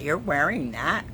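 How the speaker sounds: a hint of a doubting boyfriend; boyfriend's voice. The boyfriend doubting her outfit, lightly voiced. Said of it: "In my boyfriend's voice".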